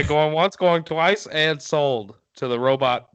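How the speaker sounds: going once, going twice patter; auctioneer voice. Pretend. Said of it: "you sound like a robot".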